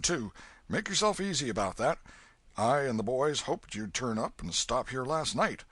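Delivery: put-on hearty old man. Old man welcoming Huck.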